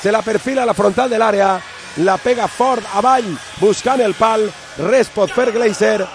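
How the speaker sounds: breakneck goal commentary. Real, not acted. Excited replay of the goal.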